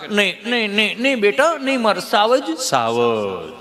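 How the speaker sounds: lightly voiced cooing mom; hint of a mother soothing her lion; doting mother. Mother soothes fallen child.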